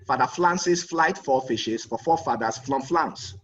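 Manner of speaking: put-on Japanese-accented tongue twister with the r sounds turned to l. Japanese man takes his turn at the tongue twister in a Japanese accent. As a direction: say "Francis" as "Flancis" and "France" as "Flance", Japanese style. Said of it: "the Japanese man said".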